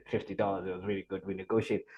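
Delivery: low, soft self-quote; modest satisfaction. Retold or imitated. Newcomer telling hosts about taxi deal, quietly satisfied. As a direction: understate the great deal, voice dropped low. Proud answer before the reveal.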